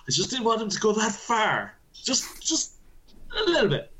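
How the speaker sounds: high, pleading protest; joking plea. Real, not acted. Engineer regretting how far his complaint went, high joking plea. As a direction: plead sheepishly in a high, squeezed voice.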